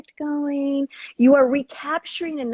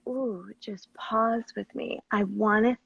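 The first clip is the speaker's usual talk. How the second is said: sexy loving voice; 3 semitones lower than usual. Shown as a demonstration. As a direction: draw it out lovingly. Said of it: "a sexy, loving voice can say".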